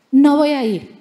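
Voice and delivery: la misma negativa, ahora más fuerte; Jonás se planta y sube la voz. Retold or imitated. Jonah refuses, said twice. (rechazo rotundo y más fuerte)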